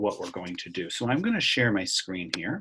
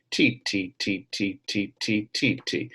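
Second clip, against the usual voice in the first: quick rhythm syllables. Shown as a demonstration. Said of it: "the ti tis are quick".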